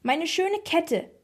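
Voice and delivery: high, drawn-out wail; distressed grandma, slow and high-pitched; screeching lament. A narrator's reading. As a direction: wail over a lost treasure. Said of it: "kreischte die Oma mit dem Rollator".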